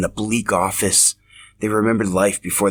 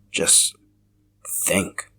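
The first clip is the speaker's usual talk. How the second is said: hushed whisper; 4 dB quieter than usual. Acted. Sebastian confides at the cliff.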